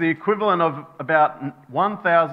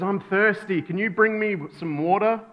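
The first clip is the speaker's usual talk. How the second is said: lightly voiced child, higher pitched; little boy asking; 4 semitones higher than usual. Son asks his father for water, lightly voiced little boy. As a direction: ask like a small boy, lightly acted. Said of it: "The son says".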